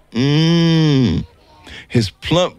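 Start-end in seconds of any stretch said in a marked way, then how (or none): 0.1-1.3 put-on baby grunt. A narrator's reading.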